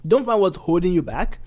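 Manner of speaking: high and loud, bursting out; punchline burst. Real, not acted. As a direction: throw away the seriousness and blurt it. Punchline after mock serious buildup.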